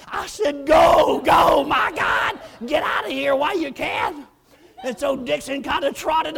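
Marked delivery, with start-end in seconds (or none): 0.7-4.3 loud urgent command; retold urgent shout. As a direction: shoo them out fast. Urging escape.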